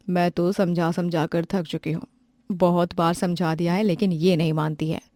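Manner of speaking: lightly voiced tired mother-in-law. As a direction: sound fed up with explaining. Mother sighs about daughter-in-law.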